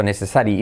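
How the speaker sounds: necessary read as it is spelled, nesesari; written-style necessary. Shown as a demonstration. Teacher mimics learners reading necessary. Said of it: "De verlo por escrito".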